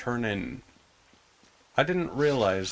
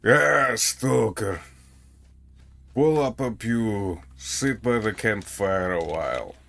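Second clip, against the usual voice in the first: thick Russian accent, slow and heavy on Pull up a pew; a gruff Russian stalker by the campfire, in a Russian accent; stereotypical Russian accent; 4 dB louder than usual. Shown as a demonstration. Answering a chat question by doing the Russian accent. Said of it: "the stereotypical Russian accent you hear in Stalker and Metro".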